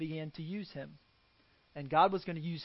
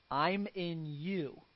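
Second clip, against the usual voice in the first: slow tender answer; 3 dB quieter, much slower than usual. Retold or imitated. God's answer, slow and soft.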